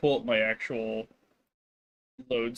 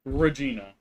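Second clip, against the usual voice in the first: louder, firm call of Regina; 5 dB louder than usual. Real, not acted. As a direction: call Regina out sharply, no sing-song. Scolding the cat.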